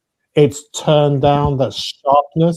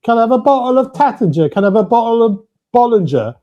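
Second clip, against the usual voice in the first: high, quick customer asking; mock customer voice; 9 semitones higher than usual. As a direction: imitate a bored shop customer. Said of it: "and say".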